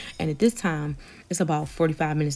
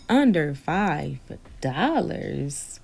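incredulous repeat; much slower than usual. Retold or imitated. Outraged at cheap offer.

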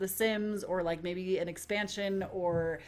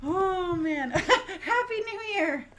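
laughing, teary cheer; 10 semitones higher, much slower than usual. Real, not acted. Milestone celebration, laughing and tearful.

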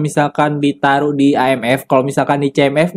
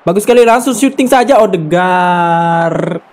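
excited build-up. Real, not acted. Near miss on a shot.

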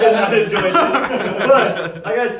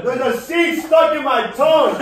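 mouth burning from spicy food; 5 semitones higher, 4 dB louder than usual. Real, not acted. Seed stuck, mouth burning.

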